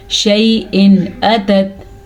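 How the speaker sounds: "شیء" ending in a distinct n, no hum; clear izhar. Shown as a demonstration. Teacher showing izhar, "شیء" with clear unhummed n. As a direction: sound "شیء اتت" as shay-in atat, cleanly. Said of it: "ظاہر کر کے پڑھیں گے".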